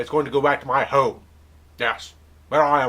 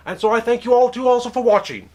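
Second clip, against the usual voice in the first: high thank you; 10 semitones higher, 4 dB louder than usual. Acted. Host's thanks to viewers.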